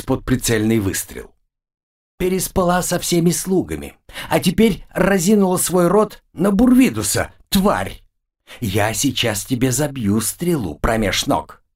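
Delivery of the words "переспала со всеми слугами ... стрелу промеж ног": furious shriek. Acted. Jealous dwarf threatens demoness.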